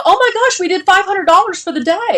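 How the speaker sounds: high-pitched, giddy boast; retold proud excitement. Founders bucking their chests over the day's takings, retold giddy pride. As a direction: crow it high, reliving the pride. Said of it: "buck our chest and we go".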